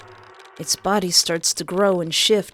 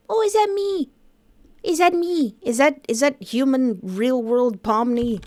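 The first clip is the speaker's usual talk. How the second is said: startled disbelief; 6 semitones higher than usual. Pretend. Reader voicing the reflection moment.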